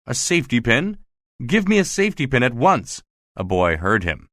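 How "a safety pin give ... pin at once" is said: raised pitch without extra volume; mild retold roar. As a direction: demand it with a restrained mock roar. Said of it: "but he roared".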